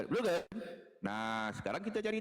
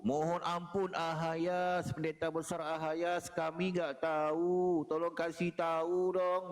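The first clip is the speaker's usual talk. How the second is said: mock pleading believer; slower than usual. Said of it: "ngomong gitu loh".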